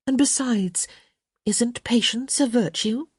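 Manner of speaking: high, unrepentant challenge. A narrator's reading.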